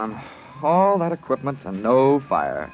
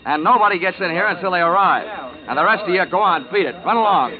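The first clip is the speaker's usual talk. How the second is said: commanding; 6 semitones higher than usual. Acted. Detective ordering the crowd out of the room, commanding. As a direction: take charge of the crowd.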